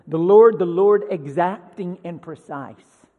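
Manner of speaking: loud booming, then stern; mock proclamation. Preacher mocking a wrong view of God, booming. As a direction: boom it out like a herald. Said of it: "as one guy puts it".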